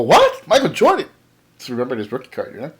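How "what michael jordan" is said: high, astonished what; mock surprise, pitched up; retold surprise. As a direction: act floored by the name. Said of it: "I go".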